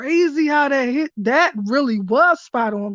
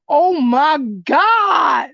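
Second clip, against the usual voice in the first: drawn-out, louder gasp of oh my God; shocked realisation; 3 semitones higher, 5 dB louder, much slower than usual. Real, not acted. Reader realises the card matches a private chat, in loud stunned surprise. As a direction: it suddenly dawns on you and you blurt it out slowly. Sudden realisation mid-reading.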